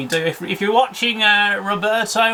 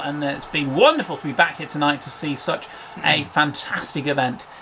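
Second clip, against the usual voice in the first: sports commentator. Acted. Sign-off as a TV commentator.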